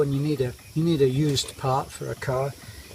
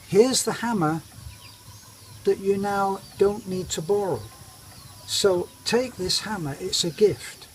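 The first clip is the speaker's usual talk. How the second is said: brighter and higher, plainly spelling it out; Western-style firmness; 4 semitones higher than usual. Retold or imitated. Giving his wife her own hammer, pointedly polite. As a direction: hand it over with pointed politeness. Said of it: "handle it Western style fashion".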